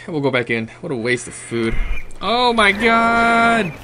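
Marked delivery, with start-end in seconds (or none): 2.2-3.7 startled shriek. Real, not acted. Startled by a monster.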